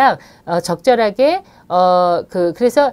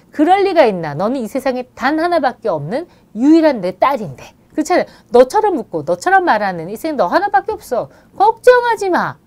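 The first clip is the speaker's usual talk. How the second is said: reassuring; 4 semitones higher, 3 dB louder than usual. Shown as a demonstration. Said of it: "좀 위로해 주시고".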